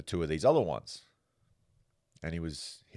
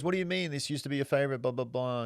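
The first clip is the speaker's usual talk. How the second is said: incredulous outburst; 9 semitones higher, faster than usual. Retold or imitated. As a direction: squeak it out in shock that she won't smoke. Husband shocked wife refuses cigars.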